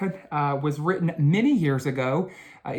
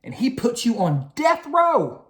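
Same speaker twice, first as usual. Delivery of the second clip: higher spooky warning; 8 semitones higher than usual. A narrator's reading. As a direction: make death row sound scary. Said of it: "warned Binky Barnes".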